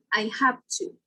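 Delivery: "have to" said as "haf to". Shown as a demonstration. Teacher reading out the example phrase, "have" ending in F. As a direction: devoice the v in "have" before "to". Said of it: "will change to a voiceless F".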